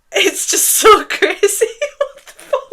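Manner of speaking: high tearful laugh; happy-crying disbelief, pitched very high; overcome with emotion. Real, not acted. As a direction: voice leaps up, laughing through tears. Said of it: "Why am I getting emotional?".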